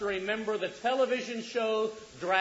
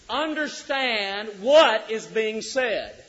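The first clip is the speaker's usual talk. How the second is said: ordinary talk, nothing marked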